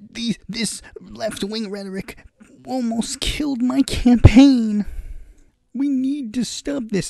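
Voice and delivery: hammed-up angry politician yelling; mock scream. Spanberger yelling at the caucus, mock scream. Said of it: "screaming at them".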